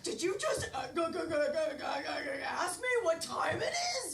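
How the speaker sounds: rising outrage, shouting by the end; offended shout building to a yell; indignant outburst. Acted. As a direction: blow up at the question.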